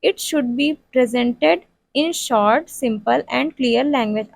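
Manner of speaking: slow, word-by-word dictation pace; dictating notes to a class. Shown as a demonstration. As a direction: read it out slowly so students can write it down. Dictating lesson plan text.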